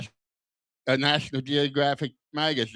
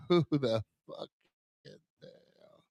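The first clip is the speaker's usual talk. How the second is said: laughing; 3 semitones lower, 7 dB quieter than usual. Acted. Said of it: "punchline repeated laughing".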